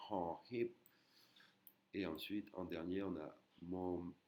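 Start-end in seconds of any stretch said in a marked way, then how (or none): 0.1-0.7 "Hon Hip" with both H sounds aspirated; air from the throat. Shown as a demonstration. Teacher demonstrating the consonant to learners, aspirated H. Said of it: "de l'air qui sort de la gorge".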